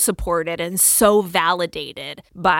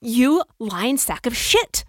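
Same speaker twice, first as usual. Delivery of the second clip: angry insult; 2 semitones higher, slower than usual. Retold or imitated. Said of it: "And I felt really mad".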